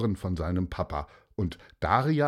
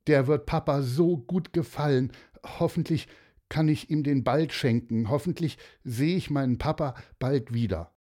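lightly voiced, higher-pitched hope; hopeful Daria; 5 semitones higher, faster than usual. Daria hoping to see her papa soon, lightly hopeful. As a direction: wish for it, pitched a little up.

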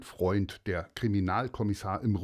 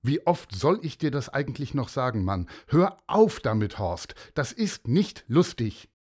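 scolding teacher; 2 semitones higher, 3 dB louder than usual. Acted. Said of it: "die Lehrerin sagen".

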